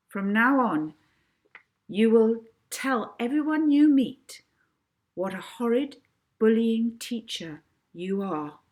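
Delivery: hypnotic command. Acted. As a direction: pronounce her punishment with triumph. Molly commands Mrs Toadley.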